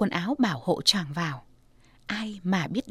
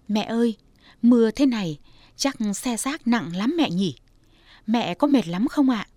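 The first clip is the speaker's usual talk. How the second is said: gentle daughter. Acted. Daughter gently asking tired mother, tender worried voice. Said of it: "nhỏ nhẹ".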